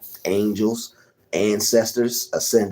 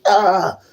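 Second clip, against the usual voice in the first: imitated stab cry; 10 semitones higher than usual. Acts out a stabbing.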